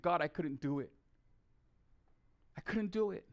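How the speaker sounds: hushed, defeated confession; quiet retold prayer of regret. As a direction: say it softly, as a helpless admission. Retold tearful confession to God.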